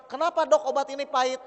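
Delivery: patient whining at the doctor over bitter medicine; mock complaint to doctor.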